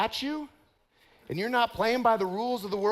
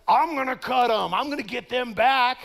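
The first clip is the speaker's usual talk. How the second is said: mock revenge, louder; vengeful threat; 4 semitones higher, 5 dB louder than usual. Pastor voicing worldly revenge, mild mock anger. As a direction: spit it out like getting even.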